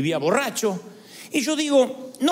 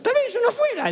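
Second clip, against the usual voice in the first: higher, shouted declaration; preacher's shout; 13 semitones higher than usual. Real, not acted. Preacher raising his voice to the congregation in a shout. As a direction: call it out to the congregation. Emphatic sermon point.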